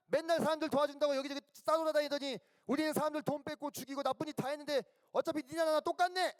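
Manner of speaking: high, scornful robber's jeer; sneering tirade from a fellow convict; acted abusive taunting. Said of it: "막 욕을 하는 거예요".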